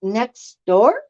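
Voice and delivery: lightly mocking sing-song introduction; mock greeting. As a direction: imitate a cheery neighbor saying hi. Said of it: "it would be like me saying where I live".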